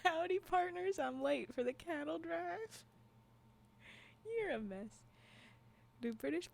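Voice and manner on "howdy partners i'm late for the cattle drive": higher, hammed-up Southern cowboy greeting; mock Southern cowboy. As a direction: play a Southern cowhand, stretching out the words. Playing cowboy after Southern talk.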